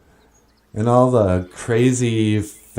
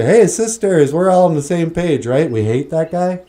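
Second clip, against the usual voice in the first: mocking high voice; 4 semitones higher, 3 dB louder than usual. Mocking feminist rally voice.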